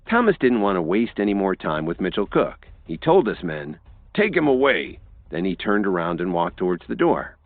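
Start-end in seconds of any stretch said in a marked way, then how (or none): 4.1-5.0 curt order. A narrator's reading. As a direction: dismiss him with an order. Thomas ordering his men.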